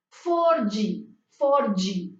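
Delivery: four G with an added i after the G; Brazilian pronunciation. Shown as a demonstration. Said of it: "la D con la I tiene un sonido vibrante".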